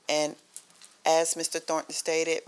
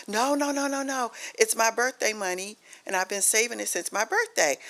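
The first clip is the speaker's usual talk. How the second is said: upset son; 5 semitones higher than usual. Retold or imitated. Son panicking over lost money.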